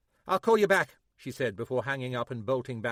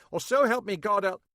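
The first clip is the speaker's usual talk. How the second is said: higher, louder threat at breaking point; threatening; 9 semitones higher, 7 dB louder than usual. A narrator's reading. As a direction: push the threat to the edge. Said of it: "her patience at breaking point".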